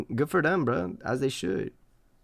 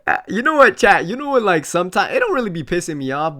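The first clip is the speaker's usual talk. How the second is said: worked up; 4 semitones higher, 7 dB louder than usual. Real, not acted. Launches into a rant.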